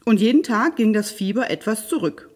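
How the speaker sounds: lively, expressive fairy-tale narration; storyteller for children, varied pitch; story narration. A narrator's reading. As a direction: read a fairy tale aloud with animated emphasis.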